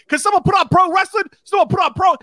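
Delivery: high, loud, pleading holler; imitated scream for help. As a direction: yell across the room for someone to fix it. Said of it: "trying to scream to get somebody".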